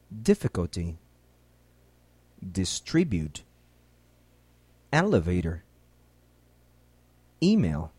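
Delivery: each English word spoken alone, clearly, for learners to repeat; careful English pronunciation. Shown as a demonstration. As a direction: model every word cleanly with a pause after it. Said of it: "ouça e repita as palavras".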